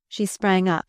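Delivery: ordinary delivery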